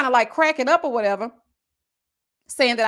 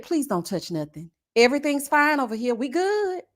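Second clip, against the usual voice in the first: polite plea. Retold or imitated. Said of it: "I politely pulled over".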